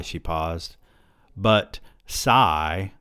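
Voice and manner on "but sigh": the word "sigh" spoken out instead of sighing; sigh read as word. Acted. Woman at the party saying "sigh" aloud, mock wistful. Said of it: "instead of her sighing, she says".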